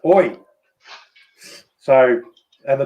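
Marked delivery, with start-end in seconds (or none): 0.0-0.4 higher-pitched call to a runaway dog; retold yell. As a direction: call the dog back sharply, retelling it. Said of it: "I just yell out".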